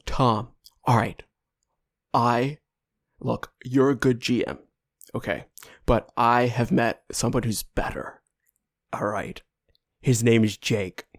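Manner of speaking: a hint of Caleb bursting with news; ecstatic Caleb. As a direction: brother calling Tom to rave about Jake, mildly excited. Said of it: "Caleb, extremely ecstatic".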